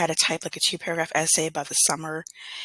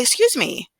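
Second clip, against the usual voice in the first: sharp, high and loud "excuse me"; stern rebuke; 10 semitones higher, 6 dB louder, slower than usual. Retold or imitated. Substitute teacher shutting down kids who mimic her, high and loud. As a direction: snap it out to stop the mimicking.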